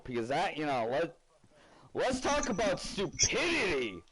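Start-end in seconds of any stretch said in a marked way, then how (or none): 1.9-4.0 higher, slower, punchy proclamation; emphatic announcement. Real, not acted. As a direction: declare it like a big topic. Repeats topic line louder, emphatic.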